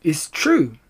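eager little foxes chiming in; excited cry. A narrator's reading. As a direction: pipe up to back Dad. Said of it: "cried the small foxes".

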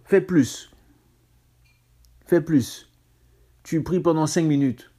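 urging exhortation. Acted. Exhorting the congregation.

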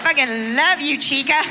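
mock Spanish accent, party-girl cooing; drunk Spanglish. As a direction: gush like a tipsy girl throwing out Spanish words with a mock Spanish accent. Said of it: "the more Spanish you start speaking".

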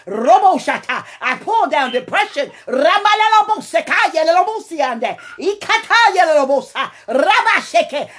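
fervent deliverance prayer; speaking in tongues. Real, not acted. Pulling down in tongues.

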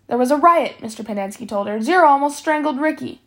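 high, loud alarmed report; agitated. Acted. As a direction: rush the news to her. Guard reports excitedly.

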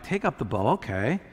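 low, soft aside; understated, dropped-down instruction; offhand retold command. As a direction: repeat the order quietly in passing. Same command repeated as an aside.

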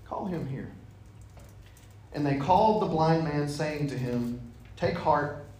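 measured Bible reading voice; scripture reading. A narrator's reading. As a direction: read the Gospel to the group. Reads Gospel passage aloud.

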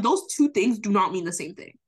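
emphatic, worked-up argument with stretched key words; hyped, insistent rant; getting hyped. Real, not acted. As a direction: get fired up making the point. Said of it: "I'm getting hyped. I need to calm down".

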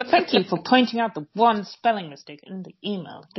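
mock-polite email thanks; passive-aggressive. Worker writing back about a spelling mistake, mock passive-aggressive. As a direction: thank them pointedly, in jest. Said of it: "super passive-aggressive email".

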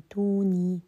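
teacher showing how the reciter joins it; hamza dropped into a long vowel. Shown as a demonstration. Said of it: "إيتوني قال".

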